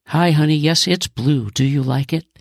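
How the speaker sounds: put-on a pleased father to his little girl; happy dad. Father answering his daughter about the blue car, happy. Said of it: "also happy".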